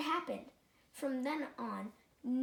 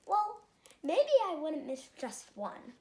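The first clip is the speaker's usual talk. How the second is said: higher, louder sudden change of heart; a vain fish talking himself into sharing; wavering; 4 semitones higher, 6 dB louder than usual. Acted. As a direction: give in, almost to himself surprised. Rainbow Fish wavering aloud.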